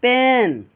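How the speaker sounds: "पेन" with the vowel held too long; lengthened vowel. Shown as a demonstration. Teacher shows too much length, lengthened "पेन". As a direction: linger on the e of "पेन". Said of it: "इतना भी नहीं लगाना है".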